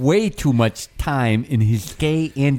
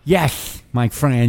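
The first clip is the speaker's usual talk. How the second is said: lisping McCain catchphrase; a lightly voiced John McCain; John McCain impression; much slower than usual. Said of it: "I got too much of a lisp when I do John McCain".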